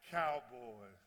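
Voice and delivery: loud, slow, drawn-out mock taunt with a laugh; teasing taunt. Player teasing Cowboys fans in the crowd, mock taunt. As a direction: rib the rival fans playfully.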